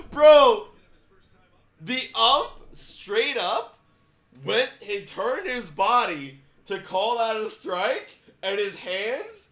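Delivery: high, loud and slowed, laughing through the words; can barely get it out for laughing; laughing while talking. Real, not acted. Telling viewers about the umpire's call while laughing hard.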